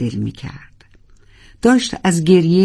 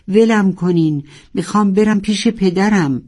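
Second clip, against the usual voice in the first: mild frantic shout; 4 semitones higher than usual. Acted.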